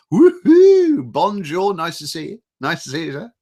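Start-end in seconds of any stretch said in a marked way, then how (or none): 0.1-1.1 loud high whoop; excited cheer. Real, not acted. Cheering a viewer's arrival.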